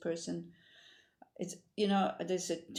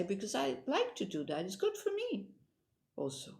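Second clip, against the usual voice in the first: cheerful reply; 6 semitones higher than usual. Retold or imitated. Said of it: "I usually say".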